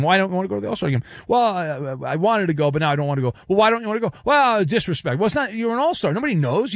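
mock back-and-forth argument. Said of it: "starts knocking on the door saying".

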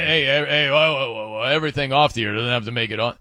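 quick, lightly voiced Coop cutting the story off; a hint of Coop waving it away fast; Coop impression. Host mimics co-host Coop, hushing the off-air story, quick and light. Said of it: "Coop is like".

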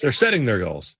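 "setting" with its -ing fully said; careful broadcast ending on "setting"; television G's. Shown as a demonstration. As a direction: finish the G on "setting". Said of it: "on television with G's".

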